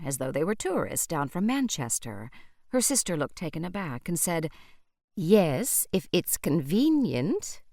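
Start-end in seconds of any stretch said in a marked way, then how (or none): 5.2-7.6 edge to her voice. A narrator's reading. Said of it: "There was an edge to her voice".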